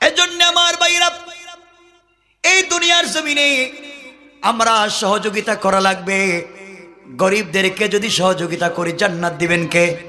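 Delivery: melodic exhortation. Real, not acted. Preacher urges brothers to help the poor, melodic exhortation. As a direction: chant the appeal, then come down to ask.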